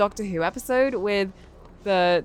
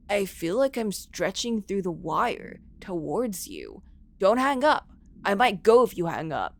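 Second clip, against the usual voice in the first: eerie caller voice. Acted.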